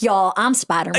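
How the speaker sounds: mock Southern "Spider-Man"; Deep South accent. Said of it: "that is the Deep South".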